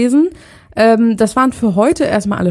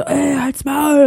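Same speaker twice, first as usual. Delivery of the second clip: mock rude brush-off, slow; tossing off a rude shut-up; retold rude snap; 6 semitones higher, much slower than usual. Retelling what the others snapped at Richard, mock rude. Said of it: "die haben gesagt so".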